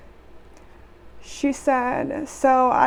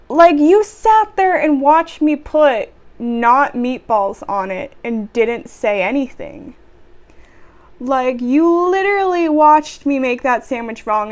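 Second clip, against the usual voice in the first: louder, emphatic scolding; exasperated rant; 5 dB louder than usual. Acted. Worker's unspoken rant at customer who watched silently, exasperated.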